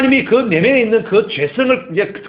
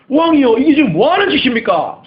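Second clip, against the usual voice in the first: higher, louder rebuke of the king; rebuking shout; 8 semitones higher, 6 dB louder than usual. Acted. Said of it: "호통을 칩니다".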